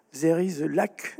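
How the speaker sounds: put-on slow English with a strong French accent. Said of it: "excusez-moi mon accent anglais". (anglais avec un fort accent français, lent)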